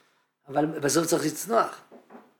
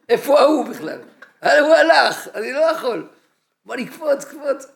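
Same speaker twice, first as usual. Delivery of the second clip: louder, higher panicked protest; a hammed-up frightened outcry; retold panic; 7 semitones higher, 7 dB louder than usual. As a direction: relive the moment of fear at the open door. Retold panic at the plane door.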